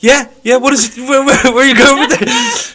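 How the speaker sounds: a vacant act put on for the guard; mock vacant. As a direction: ham up blank incomprehension. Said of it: "a vacant expression".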